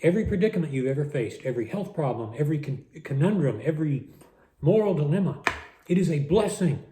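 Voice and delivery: talking through a mouthful of food; mouth full. Real, not acted. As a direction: speak while still chewing. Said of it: "I'm talking with my mouth full".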